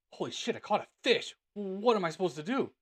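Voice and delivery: high, loud, excited yelp of panic; panicked excitement. Retold or imitated. Telling viewers about catching a fish, high excited panic. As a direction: relive the shock of landing the fish.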